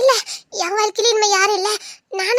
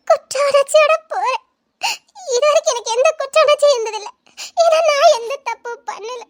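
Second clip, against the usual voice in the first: crying; 4 semitones higher than usual. Acted. Wife confessing guilt, crying.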